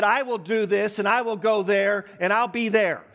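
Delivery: "I will do this" declared firmly, each promise punched; emphatic promise. Acted. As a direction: insist on every "I will" and "I'll". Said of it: "Do not say with an intention emphatically".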